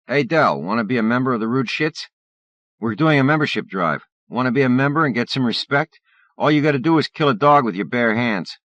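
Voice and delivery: loud, high sneering bully; taunting bully. Acted. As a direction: jeer loudly like a thug.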